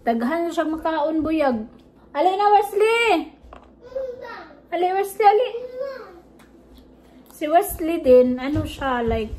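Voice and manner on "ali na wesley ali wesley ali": calling out. Real, not acted. Calling son to come.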